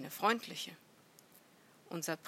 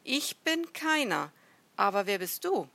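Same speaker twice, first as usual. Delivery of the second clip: raised voice, challenging the other; shouting back; 3 semitones higher, 8 dB louder than usual. A narrator's reading. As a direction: call back in protest. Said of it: "Unser Prinz rief zurück".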